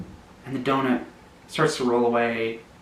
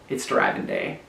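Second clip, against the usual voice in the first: much lower, booming declaration; deep announcement; 4 dB quieter than usual. Acted. Donut hopping out of bed, deep and proud. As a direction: drop the voice way down for the big day.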